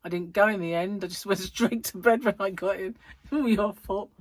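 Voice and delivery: loud mock blame through laughter; laughing retold complaint. Coworker blames her for missed outing, laughingly imitated complaint. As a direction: quote the accusation, breaking into laughs. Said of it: "she went".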